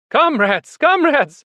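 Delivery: high, loud appeal, rising on the repeat; pleading shout. A narrator's reading. Animals appealing to the two horses, shouting. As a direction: shout to stop them. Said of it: "they shouted".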